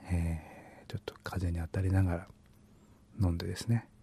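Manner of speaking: soft breathy whisper. Real, not acted. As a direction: drop to a whisper. Quiet drinking coffee outside.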